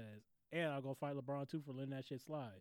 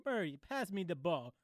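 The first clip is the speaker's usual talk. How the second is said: higher, louder Russian caricature; mock Russian accent; 4 semitones higher, 5 dB louder than usual. Retelling a player's call to Murray, mock Russian accent. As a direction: put on a bad Russian accent. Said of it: "ugliest, this, um, Russian voice".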